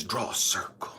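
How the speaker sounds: low, soft divine instruction; God speaking. Retold or imitated. God telling Elijah to draw a circle, low and hushed. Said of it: "It says".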